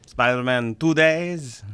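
slow, put-on Russian accent; mock Russian accent. Co-host explaining release plans, slow mock Russian accent. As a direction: spell it out slowly, Russian-style. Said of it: "It's Russian accent time".

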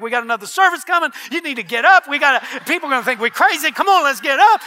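hurried urging. Retold or imitated. Acts out urging her up.

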